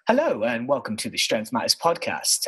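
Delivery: a stiff, proper podcast opening; formal host intro. Retold or imitated. Co-host imitating his partner's formal intro, lightly stiff and proper. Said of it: "Josh opened it".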